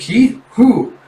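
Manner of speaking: high, loud startled questions; acted alarm. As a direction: ask urgently, playing it up. Friend alarmed by the screaming.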